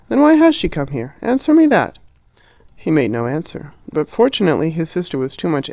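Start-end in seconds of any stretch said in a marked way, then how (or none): 0.1-2.0 high, shrill-pitched outraged questions; Harriet's furious interrogation; furious demand. A narrator's reading. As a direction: demand an answer, indignant.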